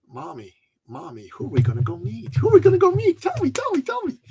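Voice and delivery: put-on high, eager child voice begging; excited little boy. Little son begging mommy who they'll meet, excited child voice. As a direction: pester like a kid who can't wait. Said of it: "my little son ... came to me and said".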